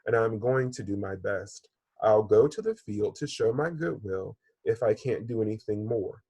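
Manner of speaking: gently paced storybook read-aloud; story reading to children. Acted. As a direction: read it like a teacher telling a fable.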